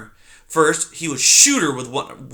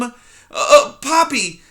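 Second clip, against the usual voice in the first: put-on high, small, timid mouse girl; timid young mouse; 11 semitones higher, 7 dB louder than usual. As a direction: squeak it out like a frightened little mouse. Poppy voiced in story.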